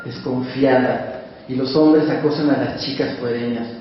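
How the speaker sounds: measured literary reading of a short tale; story reading. Acted. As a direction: read it to the listeners, unhurried. Reads a short story aloud.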